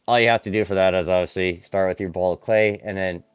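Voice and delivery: talking around a remote in the mouth; words muffled by something held in the mouth; mouth full. Real, not acted. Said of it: "oh, get the remote out of my mouth".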